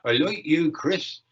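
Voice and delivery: a fond, hammed-up Hampshire accent, drawn out. College worker chatting to Chris in a mock Hampshire accent. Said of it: "had genuine sort of Hampshire accent".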